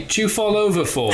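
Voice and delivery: high, squeaky Cockney-ish voice; high Cockney quote. Retold or imitated. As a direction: pitch it up like a cartoon conductor.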